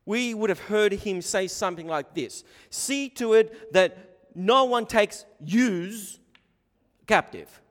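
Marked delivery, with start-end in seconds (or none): 2.7-7.6 slow, high, loud Aussie ocker voice. Retold or imitated. Preacher voicing Paul as an Aussie ocker. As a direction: lay on a broad ocker Australian drawl. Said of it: "If Paul was speaking a little Aussie ocker".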